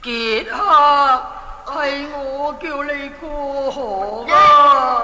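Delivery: slow prophet voice. Acted. Prophet speaks from hiding.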